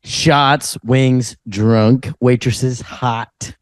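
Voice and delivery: low, punchy party-bro checklist; bro list voice. Retold or imitated. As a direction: list it like a hyped frat guy. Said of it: "him going".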